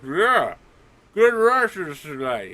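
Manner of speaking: loud guard talking through food; high, loud, muffled mock cheer; mouth stuffed. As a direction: pretend your mouth is crammed with sausage. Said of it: "a sausage stuffed in his mouth".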